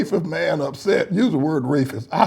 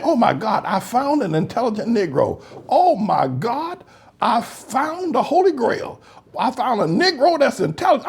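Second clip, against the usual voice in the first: mock amazement; 3 semitones higher than usual. Mocking white people marveling at an intelligent Black man. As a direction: marvel like finding the Holy Grail. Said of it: "what you're saying".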